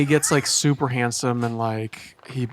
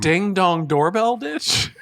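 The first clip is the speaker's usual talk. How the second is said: amused disbelief; 6 semitones higher, slower than usual. Real, not acted.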